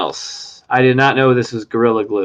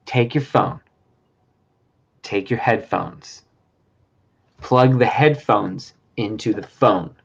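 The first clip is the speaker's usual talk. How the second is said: mock creepy; 6 semitones lower, 6 dB quieter than usual. Host repeating instructions to the guest in a mock creepy hush. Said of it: "I was trying to be creepy".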